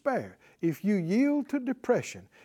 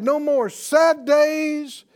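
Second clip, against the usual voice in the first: slow, higher, louder declaring; slow proclamation; 5 semitones higher, 5 dB louder, slower than usual. Real, not acted. Preacher declaring to the congregation, slow loud proclamation. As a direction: stretch each word out triumphantly.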